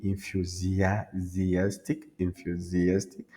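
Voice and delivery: enthusiastic slowly, leaning on AS; tonic accent. Shown as a demonstration. Teacher returning to tonic accent, slow stressed AS in enthusiastic. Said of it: "l'accent tonique".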